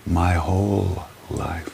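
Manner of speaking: slow, deliberate repeat. Shown as a demonstration. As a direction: spell it out slowly. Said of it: "Let me say it again".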